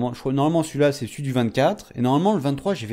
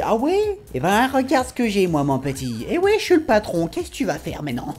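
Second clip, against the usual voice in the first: cocky boss; 7 semitones higher than usual. Retold or imitated. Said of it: "lui il montre direct qui c'est le patron".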